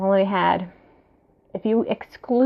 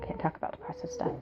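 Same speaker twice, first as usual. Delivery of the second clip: high cutesy voice; 12 semitones higher, 6 dB quieter, faster than usual. Real, not acted. Switches to cat talk.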